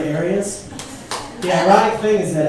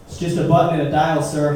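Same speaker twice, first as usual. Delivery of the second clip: sarcastic clerk; 4 semitones lower than usual. Retold or imitated. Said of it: "sarcasm was not".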